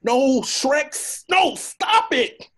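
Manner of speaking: high, loud scared begging; frightened pleading. Acted. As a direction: beg him to stop, terrified. Donkey begs Shrek to stop.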